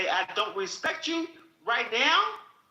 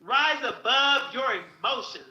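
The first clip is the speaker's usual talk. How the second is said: quoted maxim. Retold or imitated. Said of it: "The Nation of Islam says".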